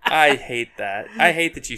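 laughing through the words. Real, not acted. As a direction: groan and laugh at the pun. Reacting to pun, laughing.

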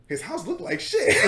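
high, slow, laughing through it; cracking up at the line; Chris's confused line, laughing; laughing quote. Retold or imitated. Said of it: "he goes".

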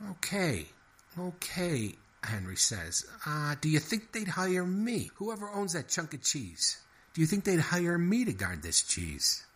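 exasperated little mouse; flustered mouse. A narrator's reading. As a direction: stop everything, mouse in a tizzy. Henry the mouse's lines.

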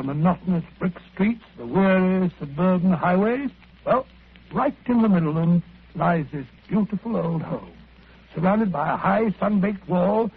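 lingering, lyrical description; poetic. Acted. Watson describing the old house to Holmes, poetic. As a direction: paint the scene like poetry. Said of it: "You may omit the poetry".

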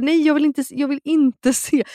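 mock horror, pushing the offer away; retold panicked refusal.

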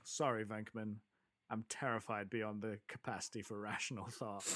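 understated, matter-of-fact dry delivery; dry as a bone; dry deadpan. Retold or imitated. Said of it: "just as dry as you like".

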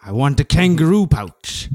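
man doing a woman's voice. Acted. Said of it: "impression of your mom".

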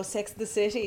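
very quiet, gentle Edinburgh lilt; soft Edinburgh accent. Retold or imitated. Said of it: "soft, like, Edinburgh".

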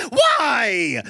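high-pitched mock child's whine; pestering little kid. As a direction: squeal it like a nagging three-year-old. Three-year-old keeps asking why.

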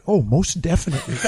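a light imitation of Magic, laughing through it; Magic Johnson impression. Retelling Magic's answer to Dan in a light Magic voice. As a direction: lightly voice Magic's easy reply. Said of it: "as only Magic could say it".

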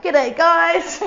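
high, loud cheery greeting; Hugh Jackman. Retold or imitated. Guest mimicking star crashing Zoom class, big greeting. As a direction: call out a big Aussie hello. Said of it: "Hugh Jackman's like".

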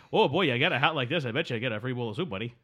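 lightly hammed-up Canadian accent; mock Canadian. Host parodying a Canadian telling the hat joke, light mock Canadian accent. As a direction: redo the joke as a mild stereotype Canadian. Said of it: "If I'd be like".

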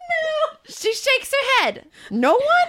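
squeaky-high Joe Pesci-like Bronx voice; absurdly high Bronx accent, nearly cracking up. Acted. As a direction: strain up into a mock Bronx tough guy. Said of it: "You sound like Joe Pesci".

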